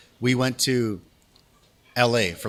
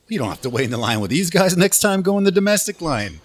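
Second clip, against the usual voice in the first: higher, louder friendly retelling; super nice officer; 7 semitones higher, 5 dB louder than usual. Retold or imitated. Officer tells Canadian traveller to skip the queue, super nice. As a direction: imitate a helpful, upbeat border officer. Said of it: "he was, like, super nice".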